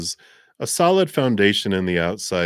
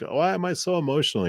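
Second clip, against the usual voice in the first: mock exasperated whine; 10 semitones higher, faster than usual. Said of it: "you feel like".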